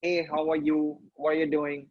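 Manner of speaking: lightly voiced female character; a hint of a put-on woman's voice; mock female version. Shown as a demonstration. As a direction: loosely imitate a woman asking casually. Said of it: "bring down my pitch to a female version".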